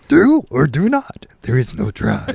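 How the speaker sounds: lightly voiced Yoda, backwards wisdom; a hint of the little green master. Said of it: "As in".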